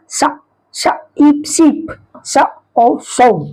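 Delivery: "सा", then "ईप", blended into "सीप" as sheep; SH sound. Shown as a demonstration. Teacher blending SH words for learners, "सीप" and "सो" begun with sh. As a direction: sound out "सो" with an opening sh. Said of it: "मिल करके इसका उच्चारण क्या होगा".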